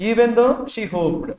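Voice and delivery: very slow, each word drawn out; slow dictation. Shown as a demonstration. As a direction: dictate Even though she hoped so they can copy. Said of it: "అర్థమైందా అందరికి". (నెమ్మదిగా dictation)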